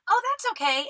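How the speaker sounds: very high, airy-polite imitation; breezy chatty girl. Small talk girl brushing off the emergency, high breezy imitation. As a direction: mimic her oblivious, friendly reassurance. Girl's breezy answer in story.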